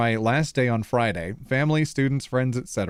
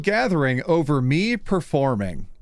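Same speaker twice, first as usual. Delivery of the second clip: high, theatrical Redditor reading voice; 6 semitones higher than usual. Acted. Streamer reading a story title, full Redditor voice. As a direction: read the title as a hammy Redditor. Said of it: "He's going full Redditor voice".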